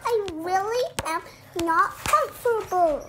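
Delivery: high, loud fussy crab; little crab voice. Acted. Crab complaining to people, high insistent little voice. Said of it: "He like".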